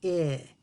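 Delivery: I said alone, mouth open to show teeth; vowel demo. Shown as a demonstration. Teacher showing kids the space between teeth on I.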